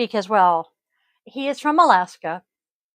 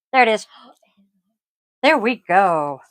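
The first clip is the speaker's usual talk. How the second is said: whispering; 5 dB louder than usual. Real, not acted. Quietly checking microphone light.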